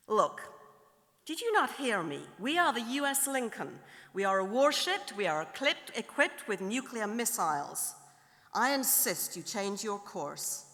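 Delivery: insistent American captain, lightly acted; mildly hammed-up American officer pulling rank; slight American accent. American warship captain insisting on right of way, slight American accent. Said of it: "do a slight American accent".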